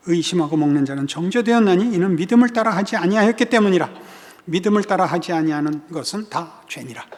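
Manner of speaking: steady, continuous formal reading; scripture reading. Acted. Pastor reading Bible verses to congregation, formal reading. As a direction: read the verses out evenly.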